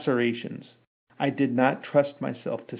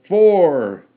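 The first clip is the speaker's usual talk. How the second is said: loud high count; shouted count; 6 semitones higher, 12 dB louder than usual. A narrator's reading. Men shouting the lash count as ordered. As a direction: call out the number. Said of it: "The crawdads and pugilists shouted".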